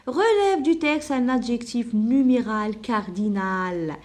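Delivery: very slow, word-by-word dictation. Shown as a demonstration. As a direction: dictate the instruction so pupils can write it. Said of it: "dictating the exercise instruction".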